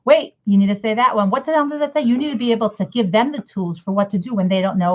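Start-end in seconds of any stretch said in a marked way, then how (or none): 0.0-1.3 impatient teacher. Retold or imitated. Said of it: "you can't just say". 1.3-2.0 frustrated, pitched up what the hell; snapping at the child in disbelief; exasperated teacher. Retold or imitated. Teacher losing patience with a struggling reader, exasperated. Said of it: "you can't just say".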